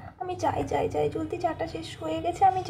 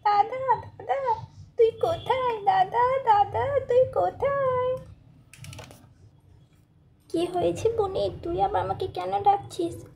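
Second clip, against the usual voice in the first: put-on a higher, tearful child's plea; pleading little girl; 3 semitones higher than usual. Little sister begging her brother to forgive her, tearful. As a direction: beg your brother like a sorry little sister.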